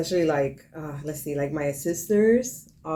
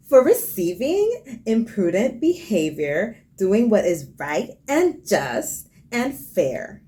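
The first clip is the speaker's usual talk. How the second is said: preppy customer service voice; 3 semitones higher, slower than usual. Pretend. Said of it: "So preppy customer service".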